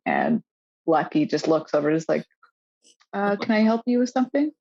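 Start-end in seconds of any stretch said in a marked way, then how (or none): 3.1-4.5 a pointed, challenging "can I help you" with a lift; tough confrontational tone. Retold or imitated. Lucky confronting staring teenagers, mildly tough and challenging. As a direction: stare them down and ask it flatly tough. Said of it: "her tone of, is perfect".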